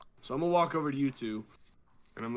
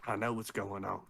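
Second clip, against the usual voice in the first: put-on southern drunk accent; 4 semitones lower, 6 dB quieter than usual. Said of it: "I'm like".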